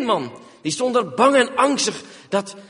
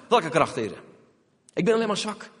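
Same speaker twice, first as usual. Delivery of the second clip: frightened plea. Acted. Gideon pleads weakness.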